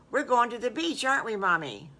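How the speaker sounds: put-on excited child guessing the trip; eager guess. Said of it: "Wrigley said".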